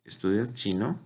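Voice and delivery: "Estudias chino" asked with the pitch climbing on the last word; rising question tune. Shown as a demonstration. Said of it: "el tono hacia arriba".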